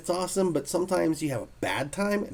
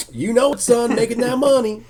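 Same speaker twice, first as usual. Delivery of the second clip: boastful artist; 10 semitones higher, 8 dB louder than usual. Retold or imitated. Neil voiced boasting loudly.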